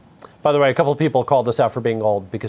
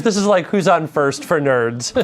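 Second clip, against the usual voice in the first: laughing; 4 semitones higher, slower than usual. Retold or imitated. Retelling joke while laughing.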